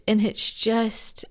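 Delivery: slow, whispered, overcome with real feeling; slowly whispered, choked up; emotional whisper. Real, not acted. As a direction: breathe it out, too moved to speak. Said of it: "I'm getting a little emotional".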